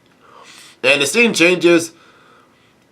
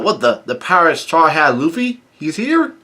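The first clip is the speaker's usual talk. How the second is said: acted-out startled bystander, not truly shouting; astonished outcry; 2 semitones higher than usual. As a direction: climb into a squeaky, incredulous question. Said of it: "one of the citizens yell out".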